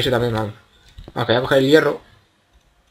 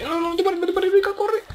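much higher, strained pleading; panicked high plea. Real, not acted. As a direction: beg in rising panic. Panicked plea to keep running.

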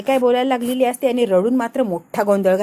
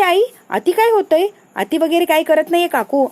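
indignant outburst; 5 semitones higher, 3 dB louder than usual. Acted. Kirti भांडणात उसळते.

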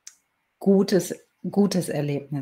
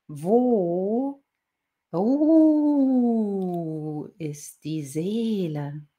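drawn-out words breaking into a howl; howling wolf; 3 semitones higher, much slower than usual. A narrator's reading. Wolf asks the girl his one question, howling.

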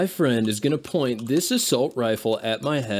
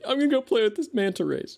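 Steve Irwin voice; 12 semitones higher than usual. Retold or imitated. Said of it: "he was like".

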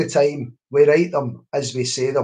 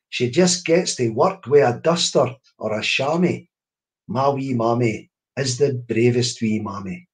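put-on lively Scots poem read aloud to children; poem recital. Reading her poem to listeners, lilting recital. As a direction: recite it with bounce and rhyme.

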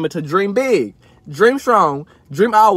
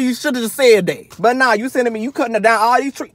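ordinary talk

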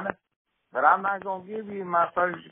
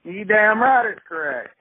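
indignant retort; 4 semitones higher, 6 dB louder than usual. Acted. Angry caller snaps back at agent.

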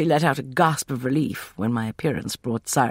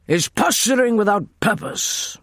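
higher, harsh snarl; 8 semitones higher than usual. A narrator's reading. Emerson scorns Sethos's scheme, snarling. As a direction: snarl it out with contempt. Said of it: "Emerson snarled".

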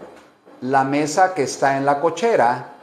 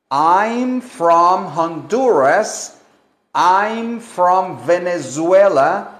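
slow model answers; slower than usual. Shown as a demonstration. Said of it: "Y contestamos".

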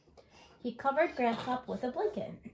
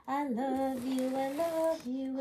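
tender and slow; 2 semitones higher, slower than usual. Acted. Mother's bedtime words.

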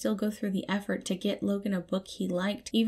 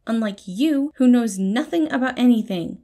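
higher and louder, rising to a near shout; contemptuous jab; 5 semitones higher, 8 dB louder than usual. A narrator's reading. Patton scolding Logan in the hallway, loud scornful jab. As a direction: pile the scorn on, building. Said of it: "he spat back".

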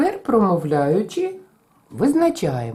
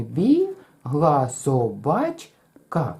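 Бігла собачка very slow, ends held; Бігла собачка, quick дві восьмі in the middle; rhythm check; 3 semitones lower, much slower than usual. Shown as a demonstration. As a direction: stretch БІГ and the end of собачка. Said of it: "Перевіряємо".

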